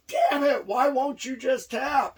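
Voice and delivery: high, loud exasperated outburst; getting mad. Retold or imitated. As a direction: demand it in acted frustration. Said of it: "getting mad, going".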